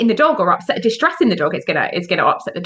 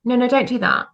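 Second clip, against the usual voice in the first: timid no. Retold or imitated. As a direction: imitate a hesitant handler. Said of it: "And the woman's like".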